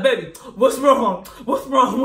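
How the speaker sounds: lightly voiced boyfriend, laughing through it; imitating him calling out while giggling. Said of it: "I hear him like".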